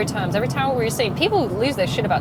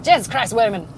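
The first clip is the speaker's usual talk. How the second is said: loud, hammed-up Irish exclamation; terrible Irish accent; 7 dB louder than usual. Shown as a demonstration. Playfully repeating their swearing for listeners, loud bad Irish accent. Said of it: "That was a terrible accent".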